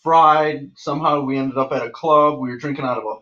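upbeat, lively retelling; hype man. Shown as a demonstration. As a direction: tell it like the party's on. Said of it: "let me be the hype man".

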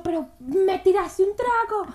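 reenacted angry outburst in the club; retold yell. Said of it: "No, yo gritaba".

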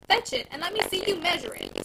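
firm lady giving orders; mildly commanding; authoritative. Acted. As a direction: command the peddler. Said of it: "said Missus Glegg authoritatively".

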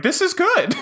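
very high, laughing mock delight; squeaky laughing this is good; mock pleasure. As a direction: giggle through the line. Voicing tortured person, laughing.

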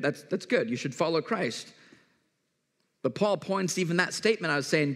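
ordinary talk, nothing marked

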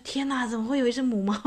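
disbelieving exclamation; amazed. Retold or imitated. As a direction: sound truly shocked. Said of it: "然后我觉得".

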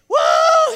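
a sudden high yelping woo; John calling down from the treetop with a high whoop. Retold or imitated. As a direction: whoop like you just spotted something huge.

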